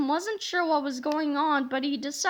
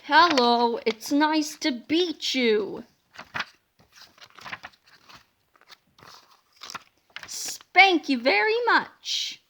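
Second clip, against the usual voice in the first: goofy hypnotized voice; 2 semitones higher, much slower than usual. Acted. Silly hypnotist-style greeting voices.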